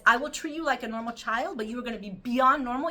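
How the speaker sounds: emphatic rabbi. Retold or imitated. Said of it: "He says".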